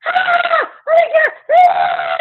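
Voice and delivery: put-on high, loud shriek of panicking kids; retold kids screaming. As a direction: shriek it like a kid seeing vomit. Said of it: "All these kids start screaming".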